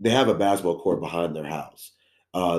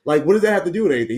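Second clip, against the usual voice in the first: retold disbelief; 9 semitones higher, 4 dB louder, faster than usual. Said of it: "I was like".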